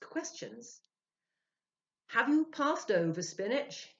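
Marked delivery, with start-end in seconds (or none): 2.1-3.9 high, loud, eager asking; eager question. A narrator's reading. Ludwig questioning the spirit, high and thrilled. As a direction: lean in, thrilled to reach the spirit. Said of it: "he asked".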